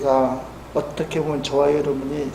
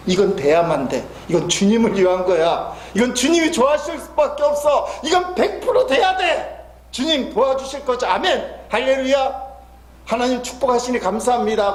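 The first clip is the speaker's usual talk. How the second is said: overconfident prayer; 5 semitones higher than usual. Retold or imitated.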